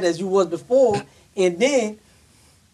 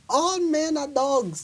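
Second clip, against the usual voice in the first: slow, higher, laughing put-on Asian accent; half-laughing imitation of an Asian accent; playful mock accent, drawn out; 7 semitones higher, 5 dB quieter, much slower than usual. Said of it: "Why you using that accent".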